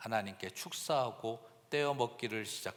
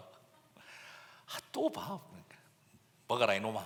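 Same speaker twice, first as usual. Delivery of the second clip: drawn-out, very slow Gyeongsang dialect voice. Imitating a mother urging her child to eat: imitating mother in gyeongsang dialect. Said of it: "경상도 사투리로".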